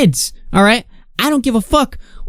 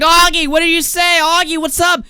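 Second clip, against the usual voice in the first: mock accusing; 11 semitones higher than usual. Mocking accusing chat.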